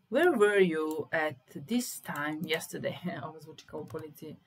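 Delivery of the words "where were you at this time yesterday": slow dictation. Shown as a demonstration. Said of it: "slow loud dictation".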